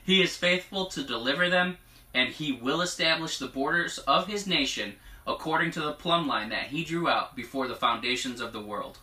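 measured declaration, lifting on key phrases; prophetic proclamation. Acted. Reading God's word to the congregation, prophetic proclamation. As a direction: read it out as a solemn promise.

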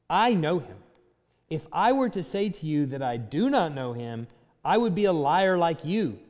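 measured Bible reading voice; solemn gospel reading; scripture reading. Acted. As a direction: read the passage with weight. Reading John 8 aloud.

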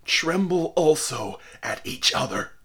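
dying minister denouncing the onlookers; impassioned cry. A narrator's reading. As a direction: preach his last accusation with full force. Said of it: "cried he".

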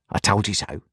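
excited. A narrator's reading. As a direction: keep the gleeful pitch up. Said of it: "cried Wemmick".

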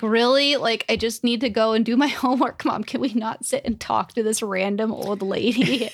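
mock-impatient complaint to a parent; exasperated teen. Daughter replays begging mom to leave the store, exasperated. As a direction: whine lightly at Mom to hurry up.

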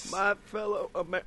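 presidential impression gone astray; Bill Clinton. Host failing at Obama, sounding like Bill Clinton. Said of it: "nope, that's Bill".

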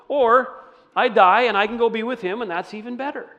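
earnest joy. Retold or imitated. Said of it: "So that's how he could say".

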